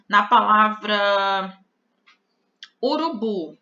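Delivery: "urubu" said slowly, the last syllable "bu" stressed; teaching stress. Shown as a demonstration. Teacher to class, showing the stressed final syllable of "urubu". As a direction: spell out "na palavra urubu" with the weight on "bu". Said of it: "Na palavra urubu, a sílaba forte é a última".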